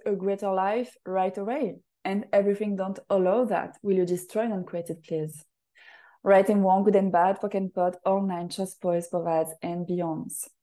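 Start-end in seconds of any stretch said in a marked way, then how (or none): 2.0-10.5 rapid ritual recitation. Acted. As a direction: rattle off the clearing statement like a practised incantation. Recites ritual clearing statement.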